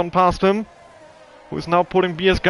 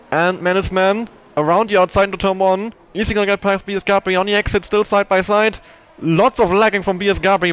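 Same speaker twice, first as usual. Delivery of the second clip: higher, quicker live race call; motorsport commentator; 4 semitones higher, 3 dB louder than usual. Real, not acted. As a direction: build the tension of the overtake.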